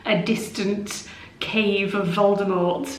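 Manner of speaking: echoey room sound; cave echo. Real, not acted. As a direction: voice echoing off bare walls. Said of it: "I'll probably sound like I'm in a distant cave".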